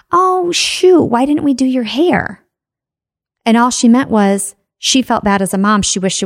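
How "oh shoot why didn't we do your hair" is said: sudden high exclamation, a mother caught off guard; imitating mom, surprised and sorry about the hair; mom's dismayed remark. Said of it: "and your mom said".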